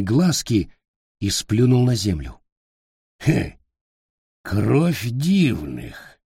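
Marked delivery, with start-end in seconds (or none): 3.2-6.2 slow smirking goblin, stretching кровь; a hint of a sneer on кровь дивных; slow goblin with кровь drawn out. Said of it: "усмехнулся он".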